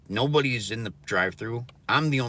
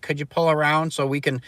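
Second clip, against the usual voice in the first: mocking high voice; 7 semitones higher, 7 dB louder than usual. Mocking drive-thru worker.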